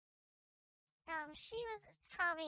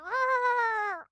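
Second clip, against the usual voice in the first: amazed whoa; 6 semitones higher, 15 dB louder than usual. Acted. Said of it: "She just went".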